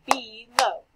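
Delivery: "Below" with a long, clear "ee" in the first syllable. Shown as a demonstration. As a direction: hold the E in "Below". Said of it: "it makes the long E sound".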